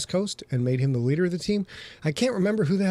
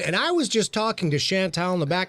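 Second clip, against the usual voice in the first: lilting home-shopping presenter patter; hammed-up shopping channel pitch; QVC host. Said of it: "welcome to the Q V C channel".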